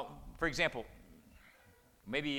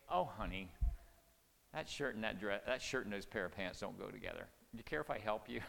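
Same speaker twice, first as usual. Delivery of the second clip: softer, tactful wife offering help; gentle spouse; 5 semitones lower, 4 dB quieter than usual. Retold or imitated. Tasteful wife gently offering to help her husband, softly. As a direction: ease him gently toward a change. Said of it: "That's a spouse to a spouse".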